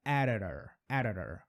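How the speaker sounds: editor with the d and t turned into quick taps, like an r; flapped editor. Shown as a demonstration. Teacher showing students the r sound in editor. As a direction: tap both middle consonants in editor. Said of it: "Põe o som de R".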